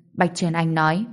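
plain reading voice

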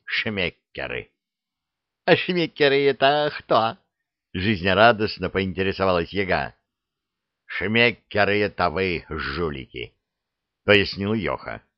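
ordinary delivery, nothing marked

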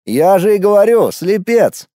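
matter-of-fact verdict. A narrator's reading. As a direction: state it as self-evident. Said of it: "Словно само собой разумеющееся".

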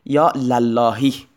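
slow, careful یا للهی with a clear open "la" on للهی; teacher sounding out یا للهی slowly, "la-lla-hi"; fatha on the lam. Shown as a demonstration. Teacher to students, showing the fatha in یا للهی slowly.

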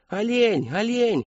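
high, gleeful shouts; delighted children clamouring. A narrator's reading. Children guess the clown's balloon animal, delighted shouting. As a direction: squeal it like excited kids. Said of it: "восторженно загалдели дети".

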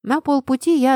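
ordinary delivery

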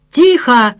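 loud barked command; a bully barking for silence. Acted. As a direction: bark for silence. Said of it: "рявкнул он".

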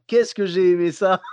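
slow, relishing each word; savouring delight. Real, not acted. Comedian relishing the memory of a Swiss fondue, slowly. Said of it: "Oh, qu'est-ce que j'ai aimé ça!".

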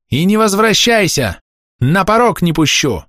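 high, scolding cry; furious banishment. A narrator's reading. Old woman bars Pavel from her house, furious scolding. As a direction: yell the ban high, leaning on the words.

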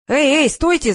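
loud high cry of alarm; shout. A narrator's reading. Sonya yells at the fake operator, loud cry. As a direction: yell to stop them. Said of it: "закричала Соня".

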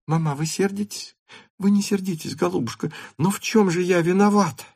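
wheedling her mother; coaxing girl. A narrator's reading. Daughter coaxes mother.

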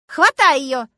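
high, loud, thrilled cry; eager shout. A narrator's reading. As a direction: urge her on in the heat of the chase. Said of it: "азартно крикнула Люська".

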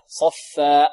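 صفا cut off with a glottal stop; wrong final hamza. Shown as a demonstration. Teacher showing students an error, glottal stop ending صفا. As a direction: show the mistake, closing صفا on a hamza. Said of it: "ولا نختمها بهمزة".

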